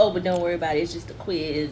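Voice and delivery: ordinary talk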